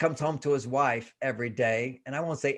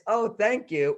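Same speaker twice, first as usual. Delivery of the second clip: grateful tone; 5 semitones higher, slower than usual. Retold or imitated. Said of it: "the tone of voice".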